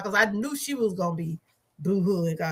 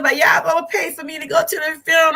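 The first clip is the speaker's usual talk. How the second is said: higher, louder, fast mock demand; imitating excited sister-in-law; 6 semitones higher, 4 dB louder, faster than usual. Sister-in-law begging family to pay for the funeral, excited. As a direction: hams up her eager plea to go. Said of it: "She said".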